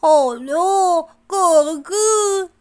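muffled, mouth full of celery; mouth stuffed. Acted. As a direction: speak around a stalk in your mouth. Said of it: "还是口齿不清地说".

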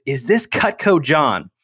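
a customer thrilled to reach him again; excited. Retold or imitated. Cynthia calling him out of the blue, excited. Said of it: "this super excited woman".

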